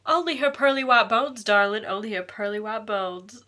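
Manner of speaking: exaggerated, deliberately silly recitation; awful put-on voice. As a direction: badly act the line out theatrically. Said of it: "Sorry, that was awful".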